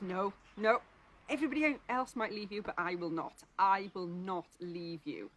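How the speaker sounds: loud, insistent denial, slowing at the end; emphatic protest. Retold or imitated. Peter vowing loyalty to Jesus, emphatic protest. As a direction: protest firmly, driving each refusal home.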